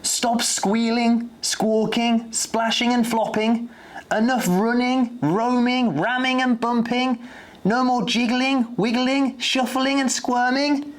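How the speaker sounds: put-on a girl ordering the whole zoo to stop; commanding shout. A narrator's reading. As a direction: stop everyone in their tracks. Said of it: "shouted Izzy at the top of her voice".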